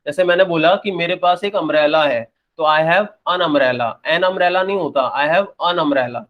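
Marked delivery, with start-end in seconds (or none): 2.6-3.9 "an" said as a short "un", slowly; weak an. Shown as a demonstration. Teacher showing students the usual weak "un". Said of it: "general pronunciation होती है वो अन". 5.2-6.2 "an" said as a short "un", slowly; weak an. Shown as a demonstration. Teacher showing students the usual weak "un". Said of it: "ये actual pronunciation है".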